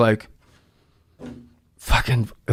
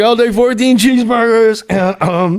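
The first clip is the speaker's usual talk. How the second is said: Farley ordering; 6 semitones higher than usual. Retold or imitated.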